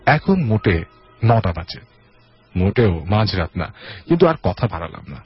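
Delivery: dramatic audio-story reading; story narration. A narrator's reading. Host reads a listener's horror story, dramatic narration. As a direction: narrate with swooping phrase openings that fall away.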